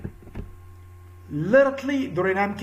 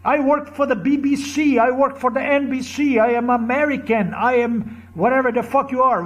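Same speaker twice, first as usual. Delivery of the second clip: higher pitched mocking brag of a proud official; mocking proud boast; 5 semitones higher than usual. Ranting at officers, mocking their proud boasting in a higher voice. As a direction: puff up and parrot their pride with contempt. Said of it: "you go proud".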